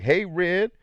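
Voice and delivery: high, loud mock old lady greeting; old lady calling out. Retelling the old lady hailing him, high and loud. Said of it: "She's like".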